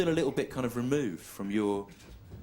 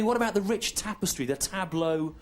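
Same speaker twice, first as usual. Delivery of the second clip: a hint of a pompous schoolboy; mock earnest schoolmate; 3 semitones higher than usual. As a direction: schoolmates pressing him on English culture, mildly mocked. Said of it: "Then they go to me".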